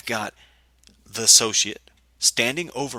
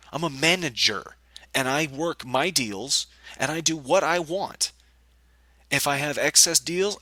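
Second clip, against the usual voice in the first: higher-pitched, emphatic retold tirade; indignant outburst; 5 semitones higher than usual. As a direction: act out quitting in indignation. Retold outburst while quitting.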